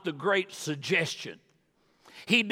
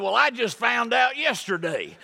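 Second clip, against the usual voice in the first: higher, louder punchline yell; mock shout; 7 semitones higher, 4 dB louder than usual. Preacher retelling friend's punchline, a mock indignant shout.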